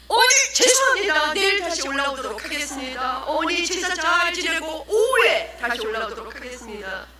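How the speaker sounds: high-pitched called-out apology. Acted. Evangelist retreating from the angry grandmother, high called apology.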